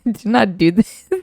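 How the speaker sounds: mocking overdramatic caution; mock solemn warning. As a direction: ham up the friend's grave warning. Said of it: "who talks like that?".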